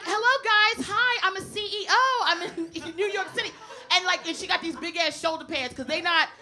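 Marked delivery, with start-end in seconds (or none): 0.0-3.5 proud Amber. Retold or imitated. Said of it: "She's like".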